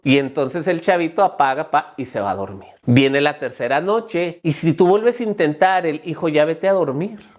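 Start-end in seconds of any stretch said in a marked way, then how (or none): 6.0-7.3 calm, even parental request. Acted. Parent trying again on the third night, calmly. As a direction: tell the child without raising your voice.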